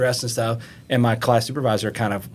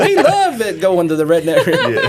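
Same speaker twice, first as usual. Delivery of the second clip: drawn-out Southern Mississippi drawl, pitched higher; 8 semitones higher, 8 dB louder than usual. Retold or imitated. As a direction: imitate a Mississippi classmate drawling his words. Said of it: "he had that Mississippi drawl".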